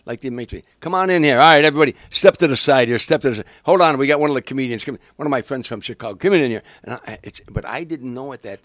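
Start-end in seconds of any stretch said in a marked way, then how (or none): 0.8-6.6 loud, brash emcee barking people inside; working the door like a sleazy lounge host; Tony Clifton lounge voice. Retold or imitated. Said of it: "playing Tony Clifton".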